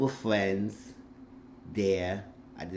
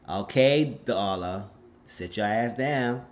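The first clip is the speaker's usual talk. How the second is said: scolding; 3 dB louder, slower than usual. Real, not acted. Scolding the character.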